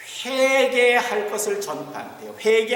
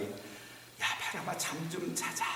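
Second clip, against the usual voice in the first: joking casual command; 2 semitones lower, 14 dB quieter, slower than usual. Pretend. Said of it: "뭐, 요런 말씀은 아니고요".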